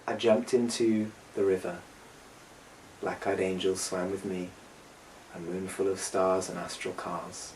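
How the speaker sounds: measured spoken-word reading, pauses between phrases; poem recitation. Acted. Storyteller reciting a song to listeners, poetic recitation.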